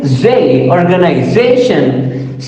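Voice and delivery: "organization" with main stress on ZA; teacher showing the strong ZA in "organization"; primary stress. Shown as a demonstration. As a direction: pick out ZA, then say "organization". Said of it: "primary stress".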